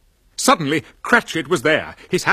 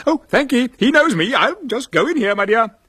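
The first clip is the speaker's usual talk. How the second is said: put-on higher, louder eager old Scrooge; eager old man; 8 semitones higher, 4 dB louder, faster than usual. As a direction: bubble with nervous joy. Scrooge eager at nephew's door.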